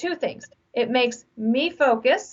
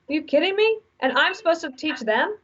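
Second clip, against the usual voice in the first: incredulous; 6 semitones higher than usual. Retold or imitated. Mock exasperated manager.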